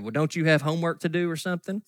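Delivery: put-on smart aleck accent. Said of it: "In my little smart aleck Katie's accent".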